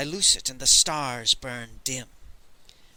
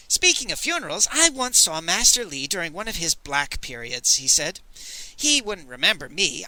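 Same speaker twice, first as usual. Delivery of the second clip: put-on higher, teasing young man; a vain, playful dandy; lightly voiced Moon Boy; 3 semitones higher, 3 dB louder than usual. Moon Boy's voice.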